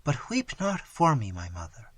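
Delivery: dying daughter comforting her mother, fading to a whisper. Acted. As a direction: let the life drain from the words.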